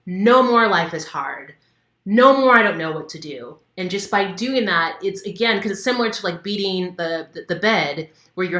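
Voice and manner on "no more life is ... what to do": loud release shout; demo shout. Shown as a demonstration. Coach showing how to shout loud while ripping paper. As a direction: shout it as you tear the paper. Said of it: "as you're ripping it".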